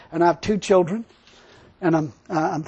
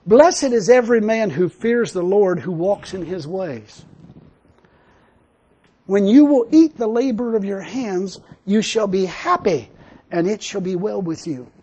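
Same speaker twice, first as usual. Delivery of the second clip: slow, measured reading of a psalm; scripture reading. Acted. Preacher reading the psalm to his congregation, slow and solemn. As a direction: read the verses slowly and solemnly.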